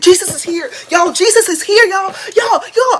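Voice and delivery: wild, frantic, high-pitched freakout. Retelling spotting the pastor at the door as a child: retelling own frantic freakout. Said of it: "I start tweaking".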